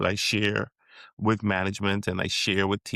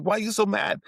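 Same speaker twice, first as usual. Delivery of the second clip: much higher, mock puzzled question; imitating a puzzled stranger; 12 semitones higher, faster than usual. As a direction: ask like the confused outsider. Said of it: "Then they're like".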